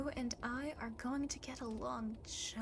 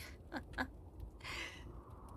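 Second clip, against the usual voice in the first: sly chuckle; 3 semitones higher, 7 dB quieter than usual. Acted. Demon hints at another demon, sly chuckle. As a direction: chuckle at your own veiled threat. Demon amused by own threat.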